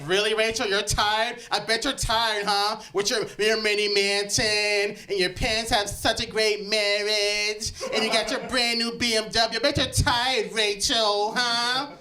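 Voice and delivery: mildly yelled mock rant, words dragged out for scorn; mock yelling. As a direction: play a scornful girl laying into her friend, without real shouting. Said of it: "starts yelling at us".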